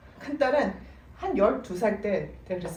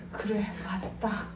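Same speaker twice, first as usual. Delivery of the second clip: laughing agreement; 7 dB quieter, slower than usual. Retold or imitated. Mother conceding, laughing.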